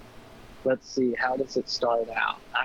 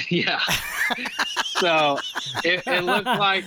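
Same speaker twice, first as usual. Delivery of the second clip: giggling through the words; words breaking into laughter; laughing while talking; 3 semitones higher than usual. Real, not acted. Laughing while telling story.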